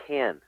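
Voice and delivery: "Cannes" said like "can", no final s; French town name pronounced. Shown as a demonstration. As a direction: correct them with "Cannes", the s left silent. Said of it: "it's pronounced Cans".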